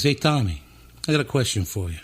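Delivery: high-voiced Philly boss. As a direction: summon an employee as the Philly guy. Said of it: "talk really high voice like this".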